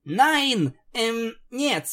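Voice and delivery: high ringing panicked shout. A narrator's reading. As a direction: shout her off in a fluster. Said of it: "звонко кричала Пегаска".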